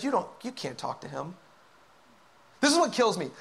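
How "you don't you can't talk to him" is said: soft, low, discouraging murmur; hushed, insinuating warning; little inner voice. Acted. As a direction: quietly plant doubt, as a voice in the head. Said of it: "you hear that little voice that says".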